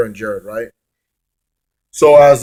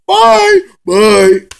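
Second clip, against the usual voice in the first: very high, loud mock-girly cry; hammed-up perky shriek; squealed farewell; 5 dB louder than usual. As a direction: squeal it in falsetto. Imitating Brooke's entrance squeals.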